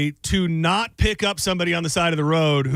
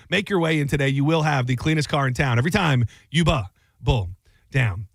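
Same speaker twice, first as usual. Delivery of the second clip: sponsor ad read. Acted. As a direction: sell the car wash like a host-read ad. Host reads sponsor ad.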